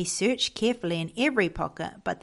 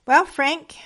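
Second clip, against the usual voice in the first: higher, louder, mildly kind greeting; a touch of fatherly kindness, pitched up; kindly father; 7 semitones higher, 7 dB louder than usual. A narrator's reading. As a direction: open kindly, voice lifted. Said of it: "Father said kindly".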